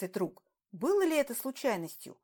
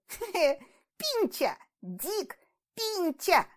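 put-on laughing boy; 8 semitones higher, 3 dB louder, much slower than usual. A narrator's reading. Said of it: "вдруг рассмеялся".

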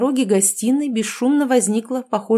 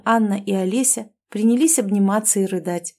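ordinary delivery, nothing marked

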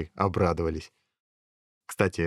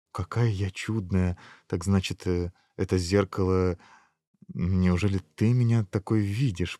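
softened wonder. Acted. Princess seeing herself through the mirror, softened wonder. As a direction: let it dawn on you tenderly. Princess touched by her reflection.

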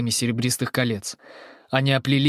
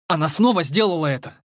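alarmed exclamation, pitched higher; exclaimed; 5 semitones higher, 3 dB louder than usual. Acted. Narrator, fleeing the creature with Fri, exclaims in alarm. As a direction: blurt it out in alarm. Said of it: "воскликнул я".

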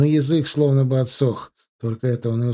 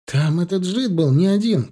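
shouting; 7 semitones higher than usual. A narrator's reading. Young thug shouts to the driver while fleeing. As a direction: call out from the car seat. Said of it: "крикнул ему Ваня".

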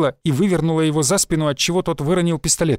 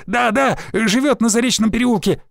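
higher, eager blurt; 7 semitones higher than usual. A narrator's reading. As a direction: rush it out hoping it's enough. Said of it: "выпалил он". (выпалить, намного выше)

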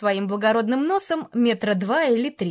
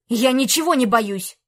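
shouted; 4 dB louder than usual. Acted. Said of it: "выкрикнул Антей".

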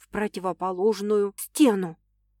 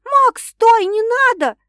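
высоко и громко, умоляя остановиться; закричать, пытаясь удержать его; отчаянный крик; 12 semitones higher, 9 dB louder, slower than usual. A narrator's reading. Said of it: "кричу я". (героиня кричит Максу, чтобы он не дрался, высоким громким криком)

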